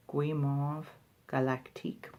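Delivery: tentative French pronunciation; attempted French. Shown as a demonstration. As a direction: try the French name carefully, word by word. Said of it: "trying to even pronounce these in French".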